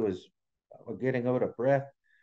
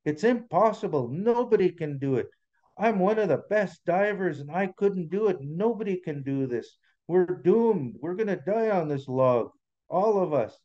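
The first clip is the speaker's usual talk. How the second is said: mildly acted despair, pitch raised; a touch of doom, higher than narration; 5 semitones higher than usual. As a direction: give up hope, lightly voiced as a story character. Story diver giving up, despairing.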